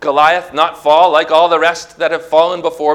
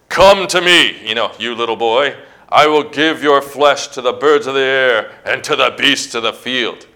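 lightly acted giant's threat; taunting; 3 semitones lower than usual.

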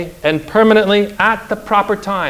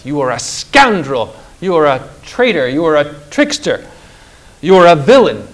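Jesus's mild shout. Acted. Christ rebukes the devil as a villain, mild shout. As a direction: hammer each accusation, a touch of a shout. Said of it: "shouted Christ".

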